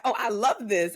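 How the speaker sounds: imitating a delighted kid; happy child. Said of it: "she is just so happy".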